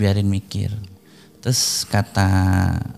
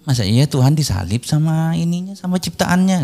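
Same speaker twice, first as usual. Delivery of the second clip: imitated disbelief, pitch climbing to the end; retold incredulous question; 4 semitones higher than usual. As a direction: question it as if it cannot be true. Koko membantah dalam debat. (menirukan tanya tak percaya)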